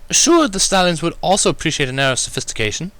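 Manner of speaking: high, light lady voice; Rarity, breezy. Acted. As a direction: answer without a beat, politely. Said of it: "she returned with no hesitation".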